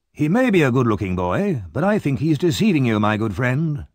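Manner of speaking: ordinary delivery, nothing marked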